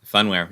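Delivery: "Funware." with first syllable like fun; corrected pronunciation. Shown as a demonstration. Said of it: "You're right about that".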